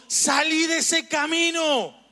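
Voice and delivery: high, drawn-out warning cry. Acted. GPS warning the driver off the road, high urgent call. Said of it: "Y él me estaba diciendo".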